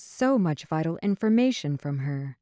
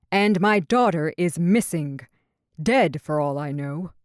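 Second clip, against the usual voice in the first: shouting; 3 dB louder than usual. Acted. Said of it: "Papa shouted".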